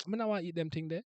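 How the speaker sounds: light Jamaican patois demo. Shown as a demonstration. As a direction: say "Me not wanna eat them thing there" in a Jamaican patois accent. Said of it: "It's just English, but with some spice".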